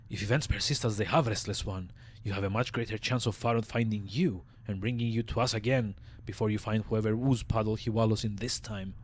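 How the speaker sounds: raspy undead mortician voice; raspy old zombie. Acted. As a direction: rasp it out like a weary corpse. Voicing Dahl the zombie.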